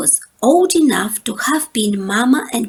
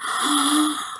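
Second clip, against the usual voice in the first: soft sigh; 5 semitones higher, 4 dB quieter than usual. Acted. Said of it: "The cubs all sighed".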